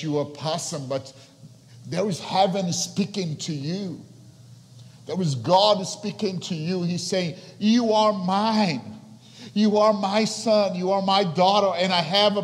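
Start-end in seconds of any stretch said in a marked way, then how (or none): 1.9-7.3 loud, high, driving preaching voice; impassioned sermon at full volume; full force preaching. Acted. 7.6-10.8 loud, high, slow declaration; louder, slow, ringing call; booming proclamation. Acted. God's voice proclaimed loudly.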